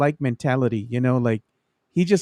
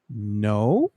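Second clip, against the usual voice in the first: shark's answer; 5 semitones lower, 4 dB quieter than usual. Retold or imitated. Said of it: "the way he answers certain questions".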